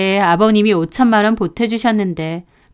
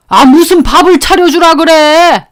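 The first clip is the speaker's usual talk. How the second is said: put-on higher, gruff-sounding grumble of an old father; father-in-law voice; 7 semitones higher, 7 dB louder than usual. Father-in-law grumbling at his wife over meals.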